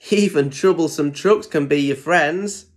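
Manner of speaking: a touch of cheerful laughter in the voice; lightly amused Thomas; laughing. Acted. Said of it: "laughed Thomas".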